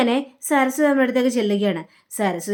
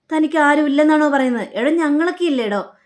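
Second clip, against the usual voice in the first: mildly insistent, higher-pitched retold protest; 4 semitones higher, 3 dB louder than usual. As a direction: protest lightly, as if retelling a friend's objection. Retold protest to hurt friend.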